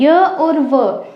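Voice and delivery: य और व stretched very slowly; teacher lengthening य and व to show sound length; slow demo. Shown as a demonstration. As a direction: draw out य and व to show their length. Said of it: "मध्य सा का मतलब जैसे अब य है".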